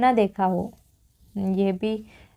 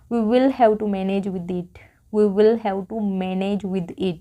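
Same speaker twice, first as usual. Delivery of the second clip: slow model sentence; much slower than usual. Shown as a demonstration. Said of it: "तो इसके लिए हम use करते हैं".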